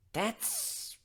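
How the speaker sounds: high, drawn-out surprise; surprised. Acted. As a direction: gasp it out slowly. Surprised reaction.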